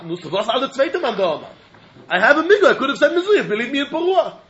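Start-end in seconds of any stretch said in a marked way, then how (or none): 2.1-4.4 pleading litigant. Acted. Second party pleads migu.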